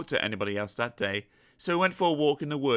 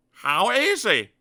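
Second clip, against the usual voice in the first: confident; 9 semitones higher, 7 dB louder, slower than usual. Acted. Dizzy suddenly clever.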